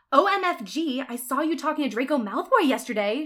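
high, loud, gossipy excitement; excitedly. Acted. Willow quizzes Ebony about Draco, excitedly. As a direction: gush like an excited friend. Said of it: "she said excitedly".

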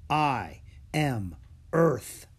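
very slow, otherworldly voice; dragon voice in the head. Acted. Worm speaks inside Drake's head, very slow and strange. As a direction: speak like the ground itself. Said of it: "Worm's voice in his head".

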